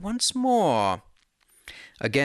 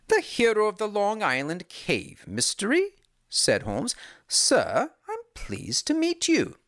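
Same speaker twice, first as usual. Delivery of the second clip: Holmes voice; 7 semitones higher than usual. A narrator's reading.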